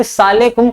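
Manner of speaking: सालेकुम as one squashed word, "saa-le-kum"; swallowed greeting. Retold or imitated. Teacher mocking careless greeters, सालेकुम run together. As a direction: mimic a lazy contraction, सालेकुम. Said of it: "अपने अंदर ही कहते".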